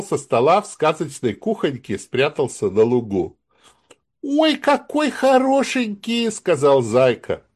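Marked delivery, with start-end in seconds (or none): 4.2-6.3 high, delighted squeal; delighted bunny. A narrator's reading. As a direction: gasp with delight at something cute.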